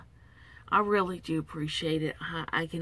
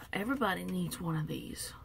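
whisper; 6 dB quieter than usual. Real, not acted. Soft aside.

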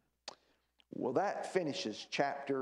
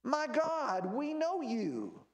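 raised pitch, slowing at the end; recited cry to God; 10 semitones higher, slower than usual. Retold or imitated. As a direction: read it as a mild cry to God. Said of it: "Israel will cry to me".

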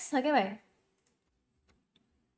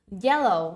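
"Yellow" stressed on YEL; strong YEL, weak -low in "Yellow"; first-syllable stress; 3 semitones lower than usual. Shown as a demonstration. Teacher models the word for students, first-syllable stress. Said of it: "âm tiết một luôn".

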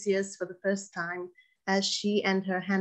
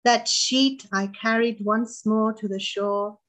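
measured poem recital with pauses between lines; poetry reading. Acted. Poet reading her Nausicaa poem to an audience, measured recital. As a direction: read it as verse, pausing after each phrase. Reads own poem aloud.

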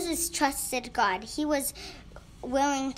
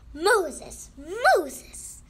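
booming higher call, voice raised; loud voice; 5 semitones higher, 6 dB louder than usual. A narrator's reading. God calls to Moses from the bush, loud voice. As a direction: call the name out loudly and high. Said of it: "said a loud voice".

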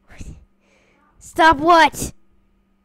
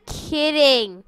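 Kidding said again, more drawn out and falling; second try at the word Kidding, stretched with a falling end; retried delivery; 3 semitones lower, 3 dB quieter than usual. Shown as a demonstration. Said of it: "let me try that again".

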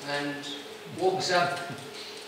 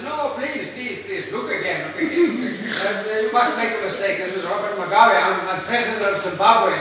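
pleading Mugabe; 3 semitones higher, 4 dB louder than usual. Retold or imitated. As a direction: insist the book is wrong.

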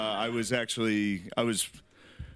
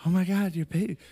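put-on gushing over a baby; 8 semitones higher, 4 dB louder than usual. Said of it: "is like".

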